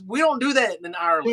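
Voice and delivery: high, quick imitated Irish accent. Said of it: "Ken was in his Irish accent".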